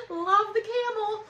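said high through laughter, slowly; real laughter in the words; laughing. Real, not acted. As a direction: still giggling as she says it. Still laughing at the card.

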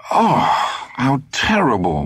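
high shocked cry on the oh; a wife appalled at her husband's joke. Acted. Monica shocked at sausage remark.

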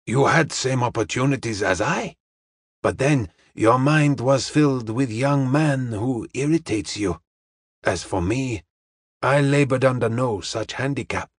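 measured, formal explanation; a hint of Charlie Chan's careful phrasing; lightly voiced Chinese detective. Detective explains his advantage to the young woman, measured.

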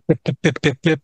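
quick, light run of pips; imitated candle flicker. Storyteller showing how the candle flame jumped, imitated flicker. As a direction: tick off short popping pips like a flickering flame. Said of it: "And I made it go".

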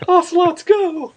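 high, loud rallying shout; shouted command. Retold or imitated. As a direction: yell it like a battle cry. Shouted catchphrase.

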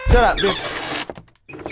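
slow, stretched-out insult; drawn out slowly. Real, not acted. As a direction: stretch every word out. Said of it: "repeats same words differently".

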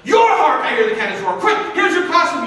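relieved costumer. Retold or imitated. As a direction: thank heaven, hurry.

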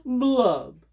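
loud, high, slow mopey fish voice; sing-song self-pity of a glum fish; gloomy pout fish. Acted. Pout pout fish moans his refrain, loud and high.

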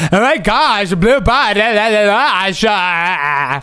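lightly mocking imitation of a friend; babbling mock impression trailing into nonsense; Alexa. Player teasing a friend by talking like her, mocking imitation. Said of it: "try and talk like Alexa".

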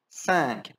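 Cinq placed low, nasal sank. Shown as a demonstration. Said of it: "Tá bem pra baixo".

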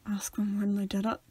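low, quiet interjection; Arnott. Acted. Prompting in an interview as a TV detective, low and soft. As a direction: murmur it low and soft, as an aside. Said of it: "be like Arnott in the first series".

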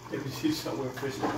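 distant off-camera ghostly voice; low haunting voice. Real, not acted. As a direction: sound far off like a ghost. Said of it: "That's why I sound like a ghost".

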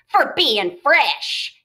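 slow, as if through a mouthful; mouth full. Acted. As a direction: talk around a bite of bread. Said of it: "he added with his mouth full".

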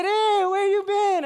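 high, loud, drawn-out friendly greeting; Charlie's greeting. Retold or imitated. Vendor Charlie calling out to a returning customer, high and glad. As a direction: call it out high and slow like an old friend.

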